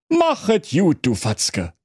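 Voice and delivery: very high, pushy little king; very high king voice calling a lad back; King Curry. Acted. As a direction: bark him to a halt like a squeaky king. King Curry says goodbye.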